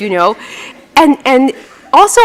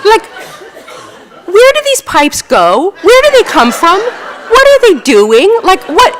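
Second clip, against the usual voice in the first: high, louder, laughing wonder; amused wonder; 10 semitones higher, 3 dB louder than usual. Real, not acted. Showing the audience a photo of weird pipes, laughing wonder. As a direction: marvel at the odd pipes.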